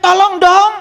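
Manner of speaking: high-pitched plea of a tree; a tree's high, strained shout; crying out for help. Acted. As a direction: cry out high, begging for help. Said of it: "Itu pohon sedang teriak".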